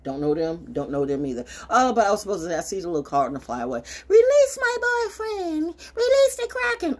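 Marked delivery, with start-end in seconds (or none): 4.1-7.0 mock grand command.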